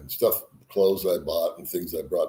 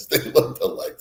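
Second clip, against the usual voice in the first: normal talking voice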